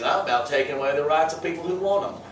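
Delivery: a hint of mock Southern redneck accent. Teacher translates the redneck's code words, light Southern accent. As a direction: let a Southern twang slip in. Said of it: "I don't know why that accent comes out".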